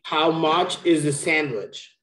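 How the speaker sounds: "How much is the sandwich" with weight on "is", falling at the end; corrective model. Shown as a demonstration. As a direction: stress the missing "is" for a learner. Teacher corrects learner's missing "is.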